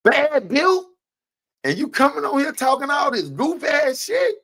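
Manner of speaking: quoting Miss Pam with a high mock shout; mock shouting quote. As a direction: throw her words back at her, yelling. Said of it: "what Miss Pam said right here".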